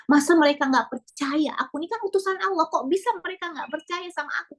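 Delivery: a prophet baffled at not being believed; hurt disbelief. Retold or imitated. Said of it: "kata Nabi Musa".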